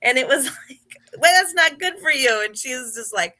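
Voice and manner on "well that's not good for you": higher, louder retold protest; mock shocked. Telling a story about her own appalled reply, mock shocked and higher. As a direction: play the appalled teammate.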